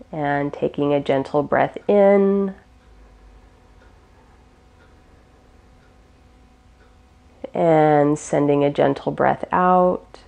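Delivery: calm, unhurried meditation guide; guided meditation. Real, not acted. Teacher guiding listeners through gentle breaths, calm guided meditation. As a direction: ease them gently through each breath, with long pauses.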